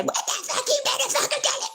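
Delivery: high, laughing parody of a rude order; mock aggressive demand. Mocking how rude people call others out, laughing. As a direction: laugh through a hammed-up bully voice. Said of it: "But if you say".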